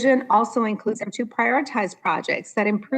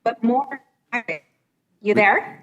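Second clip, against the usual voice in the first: radio breaking up; 3 semitones higher than usual. Real, not acted. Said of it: "your voice is going in and out".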